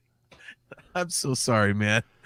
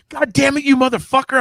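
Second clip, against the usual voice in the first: higher-pitched mock cursing at a friend; imitated angry curse; 9 semitones higher, 4 dB louder than usual. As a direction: play the pranked buddy swearing in disbelief. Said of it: "And you're like".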